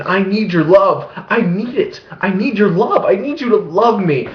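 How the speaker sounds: mildly high, whiny pleading; mock a clingy god; needy god voice. Vlogger voices God as needy, mildly whiny. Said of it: "demands that kind of emotion".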